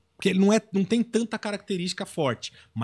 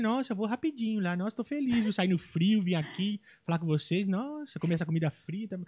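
soft, quiet cheerful friend voice; imitating Igor; 11 dB quieter than usual. Imitating the comedian friend, softer. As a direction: coo it gently like the comedian. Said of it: "Ele falaria isso".

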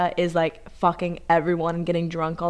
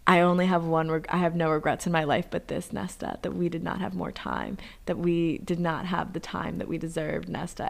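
softer, earnest retold farewell; tender last confession; 6 dB quieter than usual. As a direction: recite it as a quiet dying declaration. Acting a dying lover's confession.

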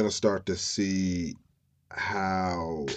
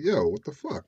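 raised-pitch indignant griping; mock pissed off; 5 semitones higher than usual. Fiancee griping at John about waxing skis, mock annoyance. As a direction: imitate an annoyed partner objecting. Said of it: "Sherry was a little pissed off".

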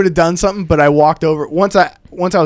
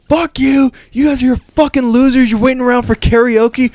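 going off; 7 semitones higher than usual. Retold or imitated. Comedian retelling yelling at rude hecklers from stage, angry. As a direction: tear into the hecklers. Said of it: "I just went off on 'em".

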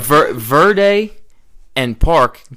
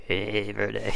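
weirdo greeting; 3 semitones lower, 12 dB quieter than usual. Acted. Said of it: "Not, not a weirdo".

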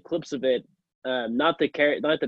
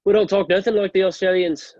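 higher, louder mock New Zealand accent; 5 semitones higher, 5 dB louder than usual. Offended New Zealander rejects comparison with Australians, in New Zealand accent. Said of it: "That was a pretty good accent".

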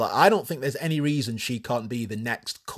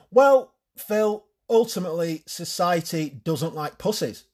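confident TV guest; 4 semitones higher than usual. Pretend. Rochelle answers on the sketch show.

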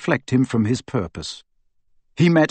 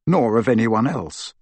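plain reading voice

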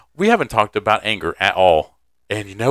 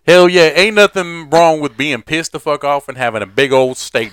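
high, loud rowdy cheer; loud hype; 6 semitones higher, 8 dB louder than usual. Real, not acted. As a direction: belt out rowdy approval. Hyping up angry stress eating.

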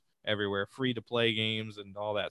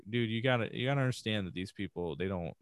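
soft, comforting words to a crying son; quiet fatherly reassurance; reassuring dad; 5 dB quieter than usual. Retold or imitated. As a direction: console him gently. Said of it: "I'm like".

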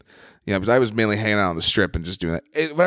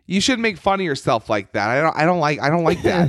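higher-pitched mock complaint; lightly acted, higher heckler voice; imitating woman heckler; 5 semitones higher than usual. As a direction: mimic a heckler's scolding objection. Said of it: "a woman heckles him".

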